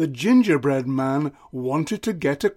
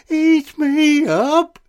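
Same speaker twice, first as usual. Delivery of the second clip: high, slow, alarmed shriek; 10 semitones higher, 5 dB louder, much slower than usual. A narrator's reading. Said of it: "shrieked the gingerbread man".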